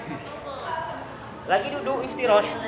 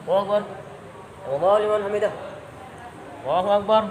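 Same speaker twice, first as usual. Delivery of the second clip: imam calling takbir; 3 semitones lower, 6 dB quieter, much faster than usual. Shown as a demonstration. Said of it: "saya imam nih".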